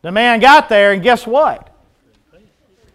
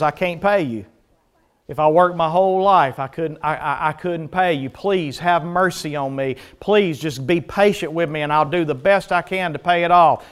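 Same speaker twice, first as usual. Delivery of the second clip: pleading debtor; 3 semitones lower, 6 dB quieter than usual. Acted. Debtor begging for mercy in parable.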